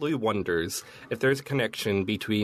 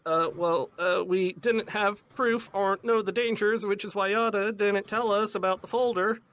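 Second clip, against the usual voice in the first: put-on higher girl voice; 9 semitones higher than usual. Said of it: "And Pi is like".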